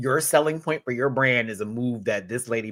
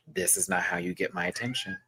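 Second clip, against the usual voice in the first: teaching the cat; 7 semitones higher, 6 dB quieter, faster than usual. Shown as a demonstration. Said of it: "we're having to teach Mina".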